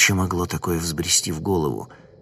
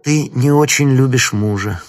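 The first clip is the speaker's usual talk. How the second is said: eerie mocking voice; 4 semitones higher, 4 dB louder than usual. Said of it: "продолжает знакомый и незнакомый голос".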